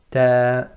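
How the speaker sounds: Ta thin, falling; light Ta. Shown as a demonstration. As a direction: correct light Ta. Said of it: "going downwards".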